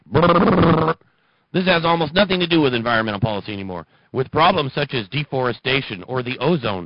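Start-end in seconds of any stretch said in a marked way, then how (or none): 0.1-1.0 brrr lip-flap reset noise; loud lip-trill brrr. Real, not acted. Lip-trill noise between takes. 1.5-3.9 rattled off quickly; fast read of This has almost nothing to do; fast retake. Real, not acted.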